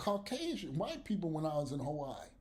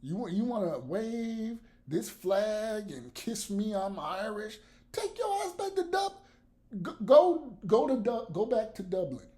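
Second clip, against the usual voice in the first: mock white supremacist; 3 semitones higher than usual. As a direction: play a bigot telling them to go home, half-joking. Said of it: "I'll be on some white supremacist shit".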